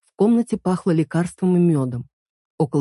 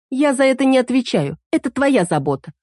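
irritated; 7 semitones higher than usual. Acted. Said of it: "раздражённо ответила она".

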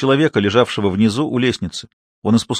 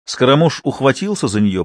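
ordinary delivery

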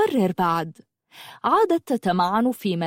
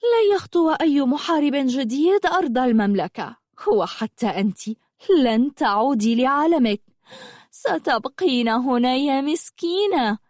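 higher, taunting witch voice; gloating witch; 5 semitones higher than usual. Acted. Witch telling the girl she can never leave, gloating. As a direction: relish trapping her.

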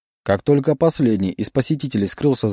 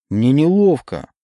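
slow, pleading whine; whining; 4 semitones higher, 3 dB louder than usual. Acted. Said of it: "продолжил конючить Олег".

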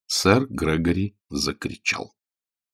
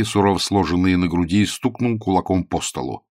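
usual speaking voice

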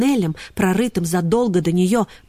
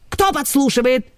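shrill squeal; 6 semitones higher than usual. Acted. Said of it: "взвизгнул шеф".

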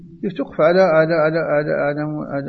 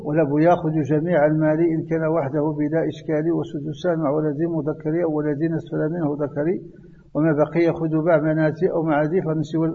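verse recitation; 3 dB quieter than usual. Shown as a demonstration. Recites memorised verse lines.

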